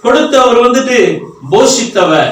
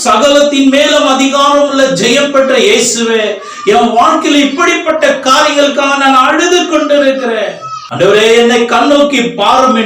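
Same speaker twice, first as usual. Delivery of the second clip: higher, imploring prayer voice; calling on God; 4 semitones higher than usual. Acted. Preacher models a kneeling believer's prayer to Jesus, imploring. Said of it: "ஆண்டவரை கூப்பிடும்போது".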